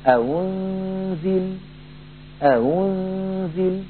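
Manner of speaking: slow أأنزل, second hamza between hamza and waw; careful Warsh easing; eased hamza. Shown as a demonstration. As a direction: recite أأنزل drawn out, softened. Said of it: "ينطقها بين الهمزة المحققة والواو".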